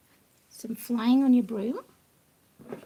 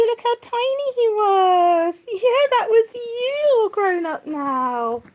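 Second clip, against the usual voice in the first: slow, higher, tearful voice; choked up; 6 semitones higher, 7 dB louder, much slower than usual. Real, not acted. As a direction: near tears over how he has grown. Emotional over baby photo cushion.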